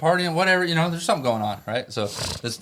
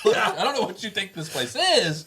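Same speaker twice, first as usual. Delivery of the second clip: slow, laughing, higher; 10 semitones higher than usual. Real, not acted. Retelling to friends, chuckling as he talks. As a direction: laugh through the line.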